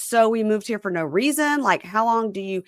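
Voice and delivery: put-on high, indignant girlfriend; lightly voiced annoyed girlfriend; mock girlfriend. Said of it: "She goes".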